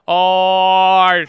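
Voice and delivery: loud high celebratory "Oh"; excited cheer. Real, not acted. Streamer cheers a viewer who passed her exam, shouting. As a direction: whoop for the viewer's win.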